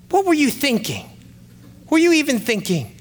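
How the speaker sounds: high-pitched mock scolding; berating dad. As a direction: scold the driver in disbelief. Retold dad berating the driver.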